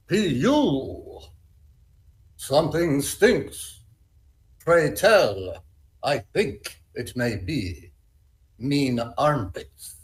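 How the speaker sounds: lightly mock-Shakespearean, slow and drawn out; a hint of a stage actor reciting Shakespeare slowly. Actor reads the line like Shakespeare, slow. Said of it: "was trying to make it Shakespeare?".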